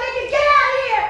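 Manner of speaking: loud, high shouted warning; furious threat. Acted. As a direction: drive him out with a shouted threat. Acted quarrel, mother threatens intruder.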